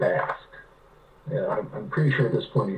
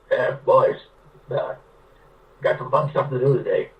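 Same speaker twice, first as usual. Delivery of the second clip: put-on Pete's gravelly accent. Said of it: "this old man's got this gravelly voice with a heavy accent".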